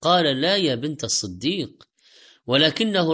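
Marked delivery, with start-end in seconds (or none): none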